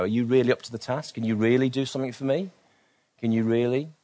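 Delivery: sceptical questions, rising at the ends; doubtful pushback. Acted. Woman pushing back at Jesus, lightly sceptical. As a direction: gently challenge whether he can deliver. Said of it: "The woman pushes back at Jesus".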